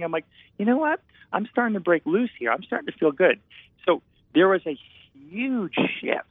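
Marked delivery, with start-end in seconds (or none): 0.6-3.4 higher, giddy self-imitation; husband reenacting telling his wife he is breaking loose, higher; mock excited. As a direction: retell your own burst of freedom, pitched up. Himself declaring freedom to wife.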